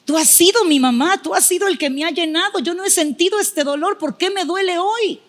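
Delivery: high, pleading cry to God, near tears; a choked-up plea; tearful prayer. Retold or imitated. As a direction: ask why it hurts, voice rising toward tears. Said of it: "empecé a llorar y le digo".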